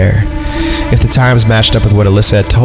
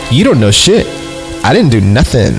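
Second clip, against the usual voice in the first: defiant; 3 semitones higher than usual. Acted. Retold quarrel by message.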